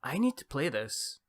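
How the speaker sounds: light attempt at a Canadian accent; amateur Canadian accent. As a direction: put on a mild Canadian accent. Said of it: "best Canadian accent I can do".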